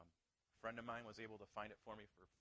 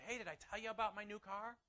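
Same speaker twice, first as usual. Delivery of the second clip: brightly sharing news, higher and louder; keen, raised-voice announcement; eager showing off; 7 semitones higher, 6 dB louder than usual. Acted. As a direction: act out bragging to a friend. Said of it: "we like to show people".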